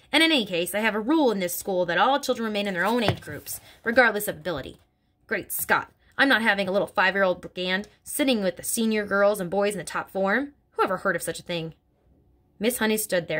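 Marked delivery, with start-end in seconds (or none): 0.1-11.7 lightly voiced stern headmistress; a hint of a bullying headmistress, scornful; Trunchbull voice. Headmistress sneering about little girls to Miss Honey, scornful.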